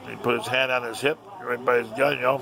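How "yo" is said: ordinary delivery, nothing marked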